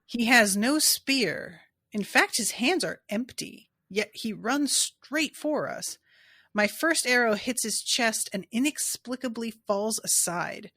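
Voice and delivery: measured audiobook reading with stressed key words; story narration. A narrator's reading. Co-host reading the book's chase scene aloud, story narration. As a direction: tell the action deliberately, leaning on the key words.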